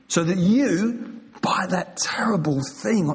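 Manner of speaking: breathy hushed words; preacher whispering at the emotional peak. Real, not acted. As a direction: drop to a whisper for weight. Sermon climax drops to whisper.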